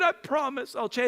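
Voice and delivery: mock tearful promise; crying child. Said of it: "he was crying".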